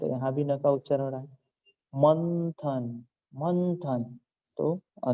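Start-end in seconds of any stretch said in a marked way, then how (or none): 1.9-4.2 मंथन slow, with a long held n; n sound sounded. Shown as a demonstration. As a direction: stretch the n before थ in मंथन. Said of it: "न का अनुसार उच्चारण हो रहा है". (न को खींचकर मंथन)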